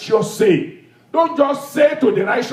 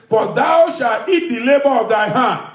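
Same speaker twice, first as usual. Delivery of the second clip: proclaiming shout. Acted. Preacher proclaims the verse to his congregation, shouting. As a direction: call the verse out to the church with force.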